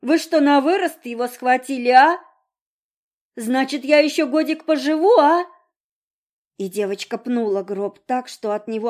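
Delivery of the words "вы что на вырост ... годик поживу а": high, loud, mocking questions; brash girl taunting; cheeky teasing. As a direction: needle them with cheek.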